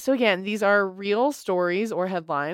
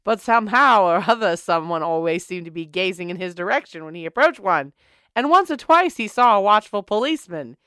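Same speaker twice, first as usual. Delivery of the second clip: put-on old-timey voice. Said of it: "use the old-timey voice".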